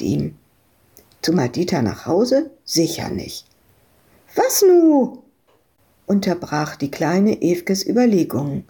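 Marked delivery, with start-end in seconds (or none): 4.3-5.2 put-on child voice. Madita interrupts.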